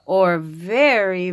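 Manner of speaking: hushed whispered hint. Acted. Mother whispering a hint about a tall animal. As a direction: whisper it like a secret.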